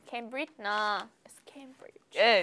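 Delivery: "Cambridge" whispered, final "dge" clearly sounded; ending sound demo. Shown as a demonstration. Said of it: "Don't forget the ending sound".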